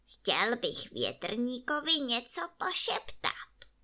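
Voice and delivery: whispered softly like a snake; Trneček quietly scheming to the fairy, whispered; sly whisper. Acted. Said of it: "tichoučce jako hádek".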